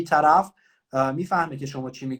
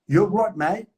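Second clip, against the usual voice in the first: British cop again; 4 semitones higher, 4 dB louder, much slower than usual. Retold or imitated. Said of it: "دوباره برگشت گفت".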